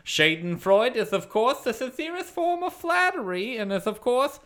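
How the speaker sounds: lightly voiced pompous news host; grand radio announcer, lightly done. Long intro read in Murray's voice.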